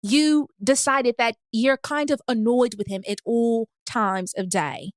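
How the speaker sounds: put-on measured London accent with careful pauses. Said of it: "my London accent low-key good".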